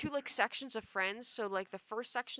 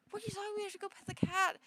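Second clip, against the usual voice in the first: put-on giddy drunk friend; 11 semitones higher, much faster than usual. Friends insisting on cat.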